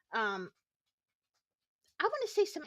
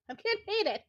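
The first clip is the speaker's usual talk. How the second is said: repeated higher and louder, the anger spilling over; "getting" hit hard, higher than before; more heated; 8 semitones higher, 4 dB louder, faster than usual. Real, not acted. Streamer repeats to chat that she is heated, raised voice.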